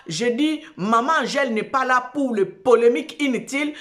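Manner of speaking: ordinary talk, nothing marked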